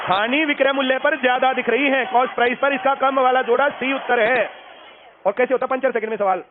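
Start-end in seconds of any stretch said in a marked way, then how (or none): 0.0-4.5 loud recitation. Shown as a demonstration. Teacher leading students to read aloud, loud recitation. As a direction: read out in a raised, projecting voice. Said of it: "पढ़ दो जल्दी से तेज आवाज".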